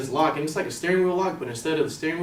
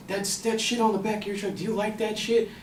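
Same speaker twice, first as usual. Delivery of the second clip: mock-aggressive and pitched up; angry stranger's rant; 6 semitones higher than usual. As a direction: imitate a worked-up man complaining. Acting the angry man confronting him.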